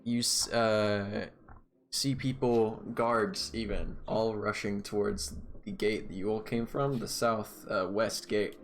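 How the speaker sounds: steady scene-setting storyteller voice; game master narration. Acted. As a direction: paint the scene for the players. DM sets the scene.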